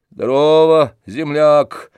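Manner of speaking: put-on loud, sneering hello to an old acquaintance; spiteful greeting. A narrator's reading. Tarantyev greets Oblomov with open spite, loud sneer. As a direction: spit out the greeting with malice. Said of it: "злобно сказал Тарантьев".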